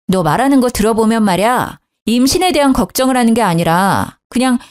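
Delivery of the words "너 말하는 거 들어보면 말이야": ordinary delivery, nothing marked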